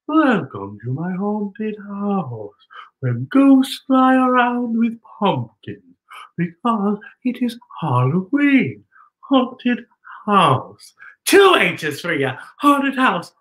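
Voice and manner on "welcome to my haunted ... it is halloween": spooky host. Acted. Spooky haunted house host.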